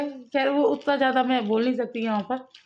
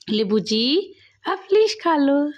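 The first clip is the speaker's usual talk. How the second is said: sweet request; slower than usual. Real, not acted. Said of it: "मैं आपसे request करूँ?". (बेटी से धीरे, प्यार से विनती)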